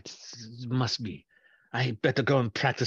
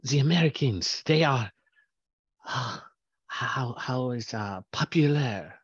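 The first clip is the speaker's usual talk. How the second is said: put-on nervous young professional; 3 semitones lower, 3 dB quieter than usual. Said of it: "had a nervous intern run in".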